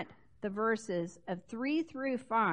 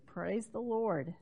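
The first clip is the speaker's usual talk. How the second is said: soft praise; 3 semitones lower, 5 dB quieter than usual. Real, not acted. Softer repeat.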